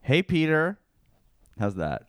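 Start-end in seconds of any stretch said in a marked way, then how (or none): 0.0-0.8 lightly voiced cartoon greeting; tentative first stab at a character hello; Cleveland Brown. Actor trying out an audition line, lightly put-on voice. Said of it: "I'm gonna audition to be Cleveland Brown".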